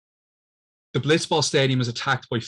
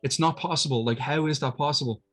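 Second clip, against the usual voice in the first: shocked denial; 4 semitones higher than usual. Retold or imitated. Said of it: "And Titus is like".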